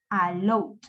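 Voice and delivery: low "allowed" with only a D at the end; correct D ending. Shown as a demonstration. Teacher corrects the wrong form, D-only ending. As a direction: say "allowed" with no added syllable. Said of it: "o allow, no".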